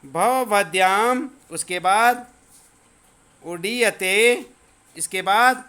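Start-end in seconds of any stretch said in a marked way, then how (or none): 0.0-1.3 भवभद्याम said very slowly, syllable by syllable; teacher drilling भवभद्याम very slowly; slow pronunciation. Shown as a demonstration. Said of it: "केवल उच्चारण करना है". 3.4-4.5 उडीयते said very slowly, syllable by syllable; teacher drilling उडीयते very slowly; slow pronunciation. Shown as a demonstration. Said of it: "केवल उच्चारण करना है".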